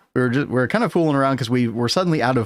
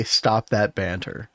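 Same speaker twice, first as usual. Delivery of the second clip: slow, drawn-out put-on British accent; mock British accent; 2 semitones lower, much slower than usual. Streamer mock-scolding like a British git, hammed-up British accent. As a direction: play up a British telling-off. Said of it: "should have said that with my southern accent".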